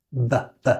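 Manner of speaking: "v" buzzed with top teeth on the bottom lip; isolated v sound. Shown as a demonstration. Teacher drilling the v sound for learners. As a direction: hold the v buzz, teeth on lip. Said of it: "put your top teeth on the bottom lip".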